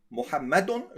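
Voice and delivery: محمد said mu-ham-ma-dun, ending in -un; wrong ending shown. Shown as a demonstration. Teacher shows students محمد with the wrong -un ending. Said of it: "is wrong".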